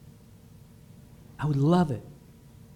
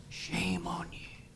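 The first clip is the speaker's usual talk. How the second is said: much softer, slow whisper of the devil; devil's whisper; 14 dB quieter than usual. Retold or imitated. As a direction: breathe it like a tempter. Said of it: "The devil man whispers".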